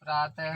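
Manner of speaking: प्रातः ending in an h sound; visarga as h. Shown as a demonstration. Teacher dictating a visarga example, प्रातः closed with ह. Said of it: "इसका उच्चारण ह की तरह होता है".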